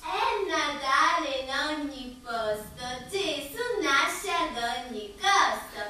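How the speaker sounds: sing-song school poem recital; theatrical swelling poetry reading. Acted. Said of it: "posso recitare la poesia". (recita teatrale di poesia)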